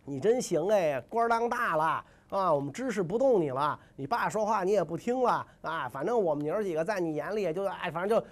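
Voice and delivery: sarcastic stepmother with a scoffing start; snide, passive-aggressive. Acted. Stepmother guilt-tripping her stepson Shun, snide sarcasm. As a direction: needle him with mock admiration. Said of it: "一听阴阳怪气儿了".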